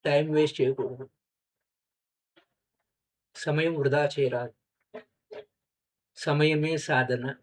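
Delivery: measured maxims with long pauses; guided meditation. Acted. Teacher reminding meditators of practice, unhurried guided meditation. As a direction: let each saying settle before the next.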